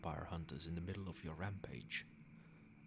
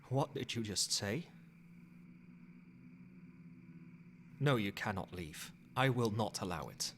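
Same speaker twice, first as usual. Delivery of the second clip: firm, raised-voice command, each word weighed; stern refusal; 2 semitones higher than usual. Acted. Vampire sire forbidding the fledgling to leave, stern and firm.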